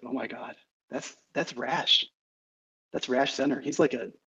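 shocked, hushed whisper under the breath. Voicing a blushing character who recognizes a runner: whispering. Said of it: "And she's whispering".

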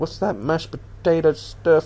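sudden, put-on American accent. Voicing people reacting to unfamiliar food, in an American accent. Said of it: "I don't know why I did an American accent".

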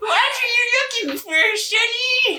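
put-on aged, old gnome man voice. Speaker voices an old gnome for the rest of the encounter, in old gnome man voice. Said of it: "I'll do the rest of this encounter in the old gnome".

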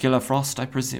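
put-on French accent. Reading a comic villain's line aloud: French accent. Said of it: "she has a French accent".

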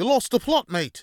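very loud, shrill, bellowed bad chef accent. Quoting a saying as Gordon Ramsay would say it: terrible Gordon Ramsay accent. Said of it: "as, uh, Gordon Ramsay would say".

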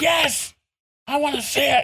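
high, thrilled, excited shout full of glee.

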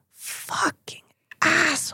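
hushed, whispered under the breath. After a man speaks loudly to them, Jen whispers to another woman: whispering. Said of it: "Jen just whispers this to her".

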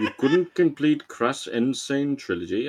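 cartoonish, high, video-game character voice. Joking with the others, sounding like the guy from Crash Bandicoot. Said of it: "sounding more like the fucking guy out of Crash Bandicoot".

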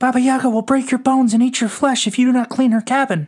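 excitedly whispering mouse voice. Narrator voices the little mouse speaking to Anna, excited mouse whisper. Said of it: "was the mouse who had helped her with her chores".

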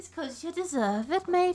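exaggerated Brummie Birmingham accent. Repeating her own line after being teased: put-on Brummy accent. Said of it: "She sounded Brummy just then".

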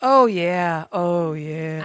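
very slow, fake seductive voice. Testing the microphone before the podcast starts: put-on sexy voice. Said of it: "I'm gonna turn my sexy voice up".

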